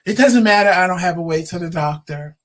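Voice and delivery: dramatic complaint. Retold or imitated. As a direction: play the drama queen. Husband's outburst retold.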